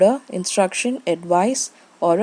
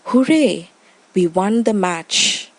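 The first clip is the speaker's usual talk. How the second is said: excited exclamation. Shown as a demonstration. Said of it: "express emotions or a surprise".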